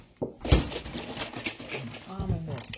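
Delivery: very slow, stretched almond milk; drawn out. Shown as a demonstration. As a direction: savour each word slowly. Repeats item, drawn out.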